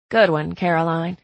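dry sarcastic jab. Acted. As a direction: say it deadpan, mocking. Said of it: "said sarcastically".

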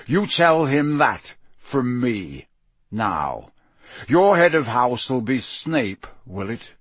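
slow, deliberate threat; menacing Moody. Acted. Moody warning Malfoy about his father, slow menace.

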